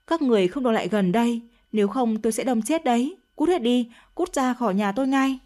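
a mild, hurried mock yell threatening the crowd; understated shout. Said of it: "và hét lên". (quát nhẹ, giọng gấp gáp)

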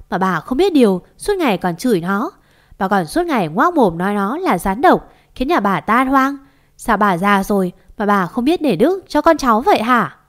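heated telling-off with punched words; indignant scolding. Acted. Neighbour telling off the mother-in-law, indignant scolding. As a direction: lay into her accusingly.

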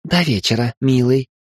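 mock-sweet coo. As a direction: coo it teasingly. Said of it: "проворковала Мираби".

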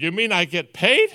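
amazed question. Retold or imitated. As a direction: play the boy's astonishment at being paid. Dennis amazed he gets paid.

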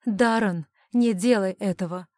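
forced out loud through pain; strained warning. A narrator's reading. The heroine warns the boy, straining loudly. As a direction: push the warning out with effort. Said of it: "с трудом выдавила я".

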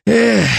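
sighed "эх", pitched high; weary sigh. A narrator's reading. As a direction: let out a regretful "эх". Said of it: "покачал головой Эдвин". (вздох сожаления)

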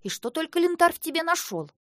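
mock her clumsiness; scornful. A narrator's reading. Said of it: "возмутилась Хлоя". (насмешливо)

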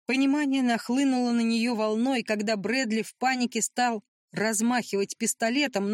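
usual speaking voice

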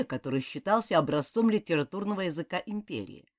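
ordinary delivery, nothing marked

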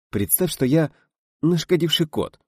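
high, coaxing aside, lightly hushed; affectionate whisper. A narrator's reading. Actor coaches his partner privately, affectionate hushed aside. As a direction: coax a partner tenderly. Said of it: "шепнул Видов, ласково улыбаясь".

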